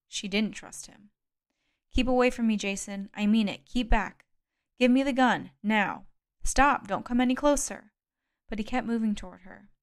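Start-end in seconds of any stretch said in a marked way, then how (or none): 1.9-4.3 frightened shout. Acted. Kate warns Jason at gunpoint. 4.8-6.1 forceful demand. Acted. Jason demands the gun. 6.4-7.9 loud, high warning; panicked shout. Acted. Kate warns him off.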